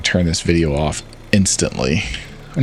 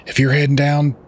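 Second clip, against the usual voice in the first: higher Southern uncle voice; Southern accent; 6 semitones higher than usual. Acted. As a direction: start the line in a Southern accent. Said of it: "I gotta do my southern voice".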